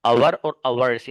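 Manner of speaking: our and ours drawn out slowly to set them apart; slow contrast. Shown as a demonstration. Teacher contrasting two words for students, very slow. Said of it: "our और ours दोनों का meaning".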